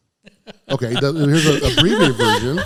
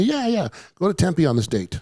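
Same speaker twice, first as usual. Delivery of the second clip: quoted booker; 7 semitones higher than usual. Retold or imitated.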